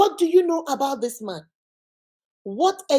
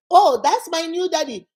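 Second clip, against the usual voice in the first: put-on bragging child; 5 semitones higher, 4 dB louder than usual. Child bragging to friends, voiced.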